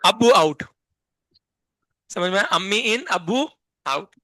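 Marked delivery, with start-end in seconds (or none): 0.0-0.6 अब्बू आउट loud, in two parts; pronunciation demo. Shown as a demonstration. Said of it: "कैसे pronounce करेंगे मैं बताता हूँ". 2.5-4.1 अम्मी इन, अब्बू आउट in separated parts; pronunciation demo. Shown as a demonstration. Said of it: "कैसे pronounce करेंगे मैं बताता हूँ".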